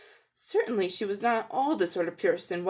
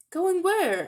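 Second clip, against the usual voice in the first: startled question, pitched higher and louder; surprised; 10 semitones higher, 4 dB louder than usual. Acted. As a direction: blurt it out in alarm. Children startled by her plan.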